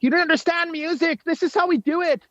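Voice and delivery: high-pitched imitation of defiant kids; high kid voice, hammed-up; mock kids' impression. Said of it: "Is that your impression of them".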